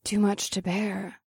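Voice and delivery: breathy, slow seductive whisper. Acted. Women seduce Cole.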